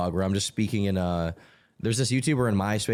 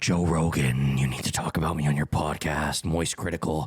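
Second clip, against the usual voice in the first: put-on deep, low character voice; 6 semitones lower than usual. Retelling how someone always talked in a bit, put-on deep voice. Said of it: "he would always do this deep voice he would put on where he'd be like".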